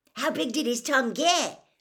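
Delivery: said eagerly. Narrator reading George's question, as an eager question. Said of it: "George asked eagerly".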